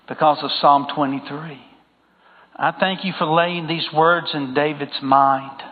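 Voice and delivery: closing prayer for the congregation. Acted. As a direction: pray it gently to the Father.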